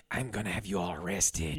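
low, quiet put-on menace; mock stern threat. Dad turning back to the car, mock stern threat.

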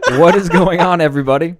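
talking around cotton in mouth. Real, not acted. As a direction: say it with cotton stuffed in your mouth. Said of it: "I, uh, had a piece of cotton in my mouth".

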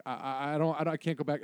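lightly acted fright, stuck on first words; freaked-out kid. Frightened kid refusing his dad, stammering. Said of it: "beyond freaked out".

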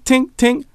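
high little metallic tinks; imitated tinking. Player hears them chipping at the base, imitated high tinking. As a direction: mimic a tool tapping on stone. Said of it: "And then I hear tink".

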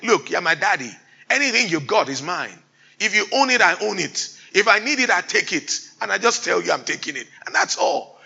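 put-on a touch of a cocky kid; lightly voiced bold daughter; bold demanding child. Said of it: "that boldness".

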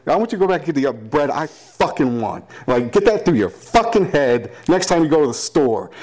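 hammed-up furious girlfriend yelling; mock screaming girlfriend. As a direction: girlfriend berating him over the bread, high mock shout. Acted quarrel, girlfriend yelling.

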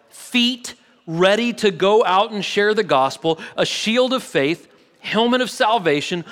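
measured, emphatic scripture recitation; scripture reading. A narrator's reading. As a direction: read the list out item by item. Reads scripture list aloud.

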